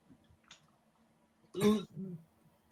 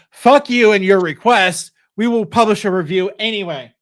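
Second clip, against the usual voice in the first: defiant retort; 4 dB louder than usual. Pretend. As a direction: spit it back at them. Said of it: "we could say".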